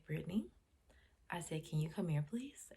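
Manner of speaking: put-on soft, gentle call to a child; calm request. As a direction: coax a child over quietly. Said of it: "I spoke to her calmly".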